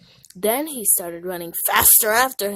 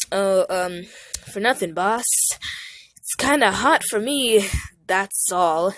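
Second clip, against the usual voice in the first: nervous excuse; 6 dB louder than usual. Acted.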